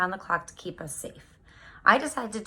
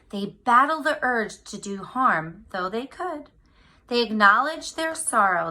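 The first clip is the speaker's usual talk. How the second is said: put-on lively picture-book read-aloud for kids; reading to children. Teacher reading a picture book to her class, lively storytime voice.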